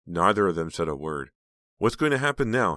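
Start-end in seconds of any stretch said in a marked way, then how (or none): 1.8-2.8 anxious wondering. A narrator's reading. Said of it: "Heather wondered".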